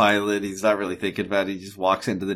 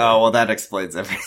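usual speaking voice

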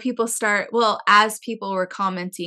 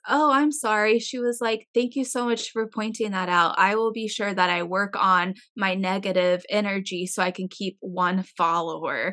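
sarcastic reply. Retold or imitated. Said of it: "she goes".

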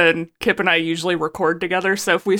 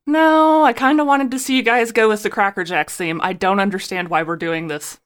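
whiny complaint; 2 semitones higher than usual. Pretend. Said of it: "we were still like".

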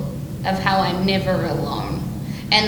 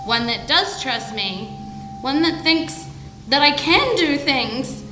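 a touch higher, steady and earnest; defiant heroine; 5 semitones higher than usual. Acted. Mascara's defiant speech.

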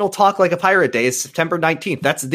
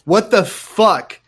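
mock outrage; 6 semitones higher, 3 dB louder, slower than usual.

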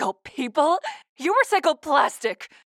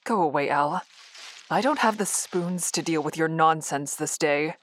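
weary; 10 semitones lower than usual. Acted. Grieving woman dismisses AI.

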